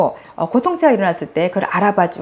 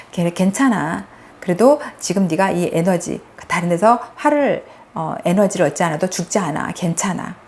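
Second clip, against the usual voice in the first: gentle reassurance; 2 semitones lower than usual. Shown as a demonstration. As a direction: lightly soothe an upset inner self. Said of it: "이렇게 허용해지고 다독여주는 연습".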